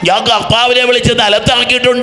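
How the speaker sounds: impassioned high-pitched exhortation; fervent preaching. Retold or imitated. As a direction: testify with passion, then challenge the crowd. Preaching retold testimony and challenge.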